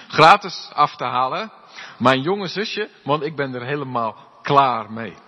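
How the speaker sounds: mock ad. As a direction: hawk the little sister like an ad. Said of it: "stel je voor dat je".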